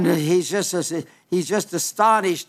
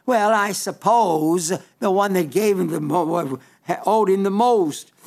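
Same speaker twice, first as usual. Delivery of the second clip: smart-aleck. Retold or imitated. Simon grudgingly answering Jesus, lightly mocked smart-aleck. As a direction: imitate a grudging know-it-all, lightly. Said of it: "kind of a super smart aleck way".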